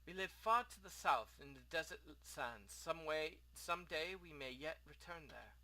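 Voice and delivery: lightly voiced foreign innkeeper; a hint of an exiled host; courteous innkeeper. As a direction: speak formally, with a rough try at an accent. Plays the innkeeper.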